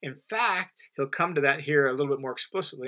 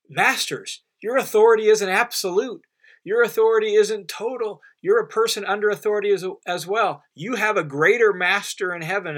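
higher and louder, pressing the warning on masters; forceful rebuke; 5 semitones higher, 5 dB louder than usual. Acted. Preacher warning slave owners their power has limits, forceful and raised. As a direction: declare it with mounting force, authority hit hard.

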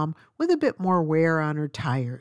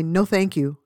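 rushed as one word; 4 dB louder than usual. Retold or imitated. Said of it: "came out as one word".

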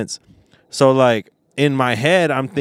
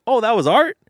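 retold surprise; 12 semitones higher, 3 dB louder than usual. Retelling the caller's surprised reaction.

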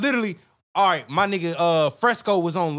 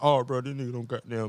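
lightly changed quoting voice; funny put-on voice; 3 semitones lower, 5 dB quieter than usual. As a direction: slip into the goofy quote voice. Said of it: "Oh, oh, the voice kicked in".

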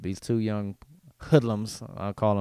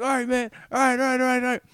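giving up; 14 semitones higher, 5 dB louder than usual. Retold or imitated. Thief giving up.

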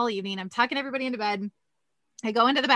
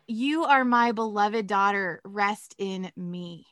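tender reassurance; 2 semitones lower, slower than usual. Retold or imitated. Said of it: "And he goes".

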